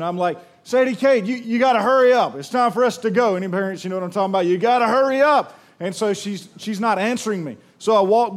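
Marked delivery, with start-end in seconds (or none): 0.6-3.3 calling out. Retold or imitated. Dad yelling from the kitchen for his daughter to hurry. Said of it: "I start yelling from the kitchen". 4.5-5.6 higher, louder hurry-up call. Retold or imitated. Dad yelling down the hall at his daughter. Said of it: "I start yelling from the kitchen".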